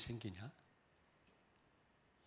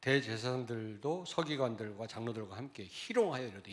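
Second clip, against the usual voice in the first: ordinary talk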